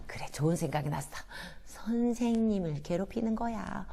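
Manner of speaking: fast, soft sly whisper; scheming whisper. Acted. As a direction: whisper the mischievous idea. Inner scheming thought.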